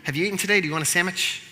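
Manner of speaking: high, over-friendly mock greeting; hammed-up buddy-buddy call, pitched well up; church folk suddenly friendly. Church folk fussing over the blind beggar, put-on friendliness. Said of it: "all those church folk going".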